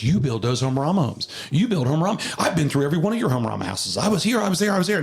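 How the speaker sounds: mock-eager rapid-fire recognition; excited fan. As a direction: gush like an eager superfan. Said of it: "He was so excited".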